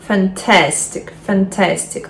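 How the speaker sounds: "Fantastic" with stress on TAS; stress before -ic. Shown as a demonstration. Teacher modelling the -ic rule, stress on TAS in "Fantastic". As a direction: hit the middle, fan-TAS-tic. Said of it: "наголос не на першому".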